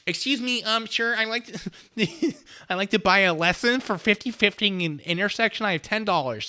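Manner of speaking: a comic high character voice reading a request; put-on high voice. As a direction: read the donor's message in a squeaky made-up voice. Reading donation in funny voice.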